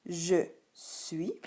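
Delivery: "Je suis" word by word, final s mute; careful dictated "Je suis"; silent S. Shown as a demonstration. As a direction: separate "Je" and "suis", no s at the end. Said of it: "le S est muet".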